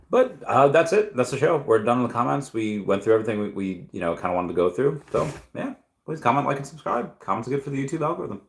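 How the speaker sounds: cheerful host wrap-up; upbeat outro. Acted. Stream sign-off outro.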